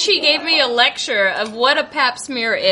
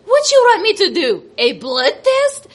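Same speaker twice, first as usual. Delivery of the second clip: imitating the nurse; 8 semitones higher than usual. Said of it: "and then she goes".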